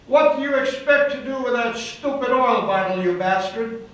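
half-acted demon yelling an insult; retold shout. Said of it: "And then she shouted".

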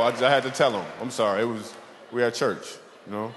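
ordinary delivery

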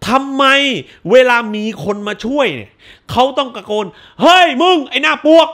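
mock schoolkid shouting the question; mock student question. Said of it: "ยกมือ".

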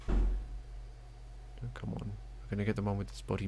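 breathy whisper, sneaking up. Real, not acted. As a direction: whisper so they won't notice. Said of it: "Why am I whispering?".

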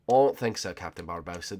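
a failed attempt at a pirate impersonation; Jack Sparrow. Rival pirate contradicting Captain Barbossa, lightly voiced pirate. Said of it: "that was not Jack Sparrow".

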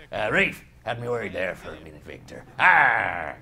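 low, lightly voiced pirate; a hint of a salty pirate. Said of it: "Pirate voice".

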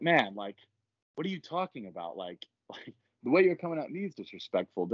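mildly acted protest at being disrespected; getting pissed off. Gym member objecting to his accuser, getting pissed off. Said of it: "I started getting pissed off here".

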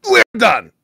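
high put-on voice; mock bored dismissal. Ending the chat argument, high mock dismissal.

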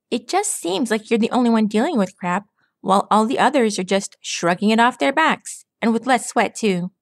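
put-on cocky pegasus recalling an old friend; Rainbow Dash. Rainbow Dash voiced by narrator.

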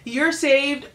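very high whoop, then slow; cartoon vultures celebrating the rescue, cheering; happy vulture cheer. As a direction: cheer like a relieved cartoon bird. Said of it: "really happy".

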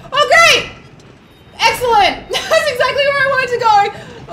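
loud, high mock delight; sarcastic cheer. Real, not acted. Sarcastic cheer at bad spawn.

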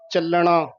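ਚੱਲਣਾ with a firm held ll; tight doubled l. Shown as a demonstration. Teacher asking for tightness, firm doubled l. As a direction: press the l in ਚੱਲਣਾ. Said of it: "ਇਹ ਕੱਸ ਕੇ ਬੋਲਣਾ ਹੈ".

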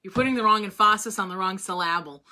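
"emphasis" as em-PHA-sis, "syllable" as syl-LA-ble; misplaced word stress. Retold or imitated. Quoting her choral director's joke, "emphasis" and "syllable" stressed mid-word. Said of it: "talk about that when we were talking about singing".

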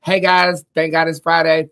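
high, loud Friday cheer; loud happy hello; excited greeting. Real, not acted. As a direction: throw it out big to the viewers.

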